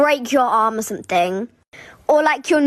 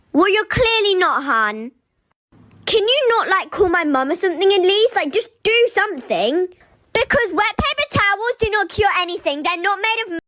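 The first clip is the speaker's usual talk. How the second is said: indignant retort; 7 semitones higher than usual. Retold or imitated. Pupil retorting to nurse, indignant.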